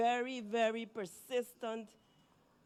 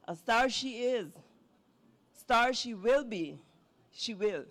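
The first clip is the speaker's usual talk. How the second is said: poem reading; 3 dB louder than usual. Acted. Poet reads her poem about herself to the audience. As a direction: let each line land with pauses.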